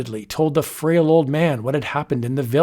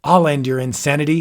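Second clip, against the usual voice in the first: crying out; 4 dB louder, faster than usual. Acted. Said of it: "he cried".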